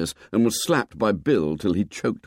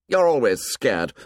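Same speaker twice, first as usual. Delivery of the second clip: contemptuous; 4 semitones higher than usual. Acted. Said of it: "Jack broke in contemptuously".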